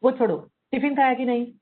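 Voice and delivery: quick brush-off, "वो छोड़ो" tossed aside; dismissive parent. Retold or imitated. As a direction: wave the child's story off, ask about tiffin. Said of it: "dismissive parents क्या बोलेंगे". (उपेक्षा भरा जल्दी वाला लहजा)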